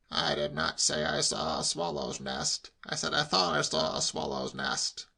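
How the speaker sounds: measured, testy insistence; exasperated uncle. A narrator's reading. Uncle with clenched fists correcting nephew, exasperated. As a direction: restate it with strained patience.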